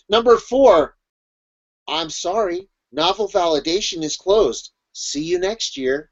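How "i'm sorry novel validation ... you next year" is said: soft, slow, rising sing-song dismissal; mock apologetic official. Official closing novel validation, mock-sweet apology. Acted official turning writer away.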